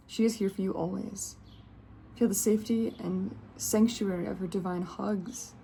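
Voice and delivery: measured, gentle reading of a card's message. Acted. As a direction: read it like a soothing oracle text. Reads the card's guidance text.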